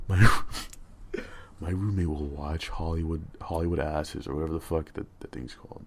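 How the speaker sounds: quiet whispering. Speaker has to whisper because the roommate is in the other room, whispering. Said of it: "I have to whisper because my roommate's in the other room".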